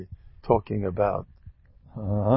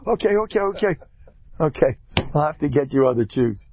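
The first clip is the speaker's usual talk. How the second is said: higher, placating mother giving in; 5 semitones higher, 4 dB louder than usual. Retold or imitated. Mother backing down to her spoiled kid, placating. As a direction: soothe the child and give in fast. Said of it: "the mother bends down".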